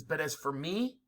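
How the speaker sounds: dramatic oratory. Retold or imitated. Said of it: "He says".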